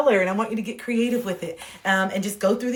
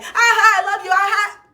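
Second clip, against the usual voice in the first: high, loud laughing affection; imitating jolly dad; 11 semitones higher, 5 dB louder than usual. Imitating her dad before his mood flips, laughing jolly affection. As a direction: gush through big put-on laughs. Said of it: "my dad can be like".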